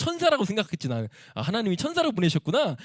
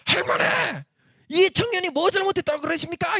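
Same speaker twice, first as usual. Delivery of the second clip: high, forceful acted protest; man shouting indignantly; 11 semitones higher than usual. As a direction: shout in the young man's defence. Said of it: "막 삿대질하는 소리 지르는 거야". (삿대질하며 따지듯 소리치기)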